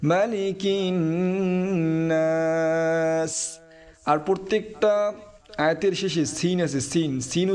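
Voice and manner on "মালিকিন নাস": নাস drawn out with a long nasal n; held ghunna. Shown as a demonstration. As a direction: stretch the n into নাস slowly. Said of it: "ওয়াজিব গুণ্য হবে".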